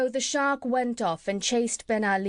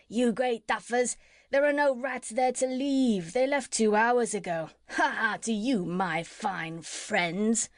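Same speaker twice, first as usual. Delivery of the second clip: shouted taunt. Acted. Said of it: "Jip shouted across from the other ship".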